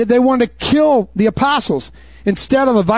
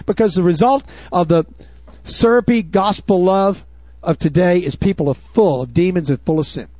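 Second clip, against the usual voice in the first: usual speaking voice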